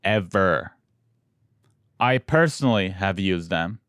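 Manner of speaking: measured podcast sponsor read. Acted. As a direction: deliver the ad copy evenly, stretching key phrases. Host reads sponsor ad.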